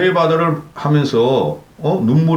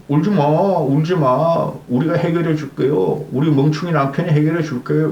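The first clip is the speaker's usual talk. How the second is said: mock soothing wife. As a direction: coo at him like a comforting wife. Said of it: "이렇게 달래는 장면이죠".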